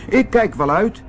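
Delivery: high piglet voice, defiant; squeaky little pig saying no. Acted. Biggetje weigert de wolf. (hoog eigenwijs biggetje)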